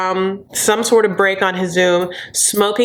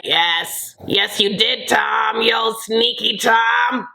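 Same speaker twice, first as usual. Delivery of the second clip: drawn-out mock scolding voice; Lisa impression; slower than usual. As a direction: stretch it out in a put-on coy scold. Mimics Lisa answering Tom.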